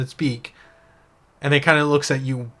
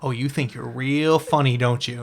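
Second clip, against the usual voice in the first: the GM as a prickly cursed oyster, lightly voiced; indignant oyster. GM voicing the oyster, indignant at the elf girl. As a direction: bristle back like an insulted little shellfish.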